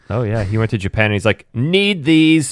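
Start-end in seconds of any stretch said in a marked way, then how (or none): 1.5-2.5 higher-pitched emphatic retold demand; retold eagerness. Quoting a friend shopping in Japan, mock eagerness. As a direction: mimic someone who urgently wants them.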